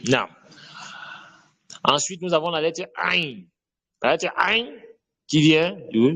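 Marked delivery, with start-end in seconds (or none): 4.4-4.7 "ain" squeezed from the middle of the throat. Shown as a demonstration. Teacher introducing the Arabic letter, throaty "ain". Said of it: "du milieu de la gorge".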